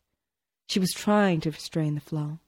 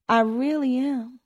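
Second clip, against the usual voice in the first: insisting; 7 semitones higher than usual. A narrator's reading. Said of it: "insisted Tony".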